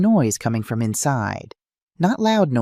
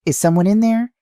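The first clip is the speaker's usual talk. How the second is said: calling out; 10 semitones higher, 5 dB louder than usual. A narrator's reading. Calling through locked door.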